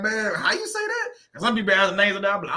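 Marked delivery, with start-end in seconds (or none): 0.0-1.1 much higher, slow puzzled voice; mock himself stumbling over a name; confused asking.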